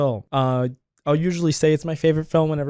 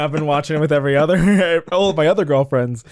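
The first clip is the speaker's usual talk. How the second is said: laughing; 6 dB louder than usual. Real, not acted. Embarrassed joke about past girlfriends.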